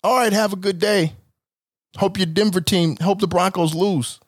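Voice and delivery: polite white small talk; cheery sendoff he should have used; light white-guy goodbye. Shown as a demonstration. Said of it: "Not a".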